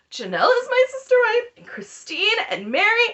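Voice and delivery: high hammed-up wail; mock sobbing. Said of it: "starts sobbing".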